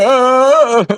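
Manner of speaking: nervous yelp. Real, not acted. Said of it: "I sound like Seth Rogen when I'm nervous".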